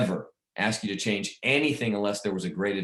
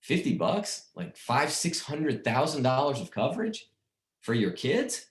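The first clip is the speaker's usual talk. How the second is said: higher-pitched disbelieving questions; can-you-believe-it astonishment; incredulous; 4 semitones higher, slower than usual. Retold or imitated. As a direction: question it in amazement, rising at each phrase end. Marvels at cheap coverage for kids.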